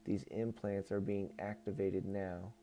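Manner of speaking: even, measured reading voice; book read-aloud. Acted. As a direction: read it out as a solemn channeled message. Reads channeled book aloud.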